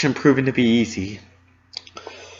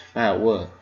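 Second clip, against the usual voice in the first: soothing; 4 semitones lower than usual. Acted. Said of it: "she asked soothingly".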